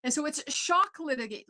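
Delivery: ordinary delivery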